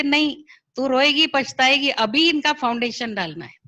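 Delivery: firm, scolding retort, no arguing; a hint of a stern father scolding the mother. Strict father overruling mother.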